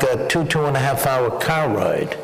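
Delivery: Boston accent on car ride. Shown as a demonstration. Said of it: "That was my Boston accent".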